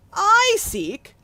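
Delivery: high, loud, affronted outburst; indignant exclamation. Acted. The Spirit protests Scrooge's claim, loud and indignant. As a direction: rise up in disbelief at the charge. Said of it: "exclaimed the Spirit".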